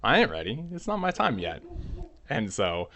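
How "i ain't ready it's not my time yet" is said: high, loud mock ghost refusing to rest; ghost grandma's voice. Grandma's spirit rising from the mud, high stubborn voice. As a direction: whine it up high like a cranky spirit. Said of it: "grandmother says".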